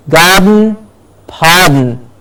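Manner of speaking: slow "garden, pardon" ending in a nasal N; vowelless nasal endings. Shown as a demonstration. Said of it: "without the vowel sound preceding it".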